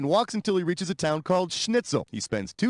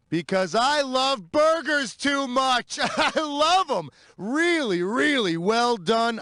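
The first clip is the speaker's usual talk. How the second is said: savoring; 6 semitones higher, slower than usual. Acted. Host craving burgers.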